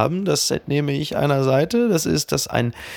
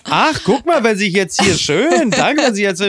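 high, teasing mock surprise; 5 semitones higher than usual. Real, not acted. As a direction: tease her in a high sing-song. Host teases guest, mock surprise. (spöttisch hoch)

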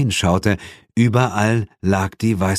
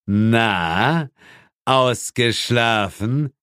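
mocking devil; 2 semitones higher, much slower than usual. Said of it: "und lachte meckernd".

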